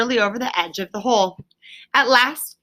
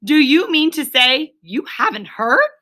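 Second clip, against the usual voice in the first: higher, louder, urgent; excited; 6 semitones higher, 4 dB louder than usual. A narrator's reading. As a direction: press Toad for the news. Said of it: "greatly excited".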